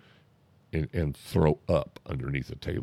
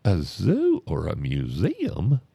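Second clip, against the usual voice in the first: incredulous; 4 semitones higher, 5 dB louder, slower than usual. Retold or imitated. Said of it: "and goes".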